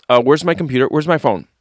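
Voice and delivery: high, mock-urgent fuss; Amber taking a bite. Imitating co-host needing a picture mid-meal, high fussing. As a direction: play someone frantic to photograph the food. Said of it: "do Amber taking a bite".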